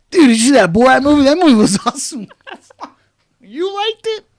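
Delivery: loud, high dude-bro gush. Retold or imitated. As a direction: rave like an excited bro. Voicing friends' bro reaction.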